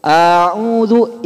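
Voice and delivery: a'udzu with the first a stretched long; wrong long hamzah. Shown as a demonstration. Teacher demonstrating the wrong long hamzah, stretched out. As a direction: drag out the opening a of a'udzu. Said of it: "alif hamzahnya dipanjangkan".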